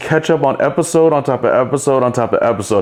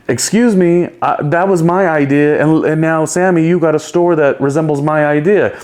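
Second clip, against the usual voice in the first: mock indignant, pitched up; Snooki; 5 semitones higher than usual. Cast member accusing another of copying an idea, mock indignant. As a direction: act out a castmate's accusing objection.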